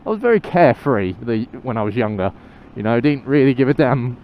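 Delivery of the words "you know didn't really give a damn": on a bumpy road. Real, not acted. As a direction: voice jolted by a bump. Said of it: "Oh, that was a nasty bump".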